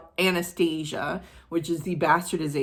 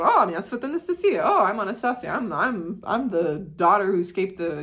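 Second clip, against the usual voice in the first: claimant voice; 4 semitones higher, 4 dB louder than usual. Retold or imitated. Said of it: "She's like".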